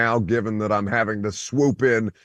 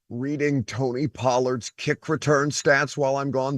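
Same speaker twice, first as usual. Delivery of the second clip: indignant, voice raised in disbelief; mock outrage; 3 semitones higher than usual. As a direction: play up the outrage, half joking. Host crashes show in mock outrage.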